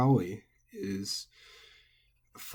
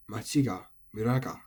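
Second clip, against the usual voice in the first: "machi ga", "mura ga" dropping on the particle; final-high accent. Shown as a demonstration. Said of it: "final high".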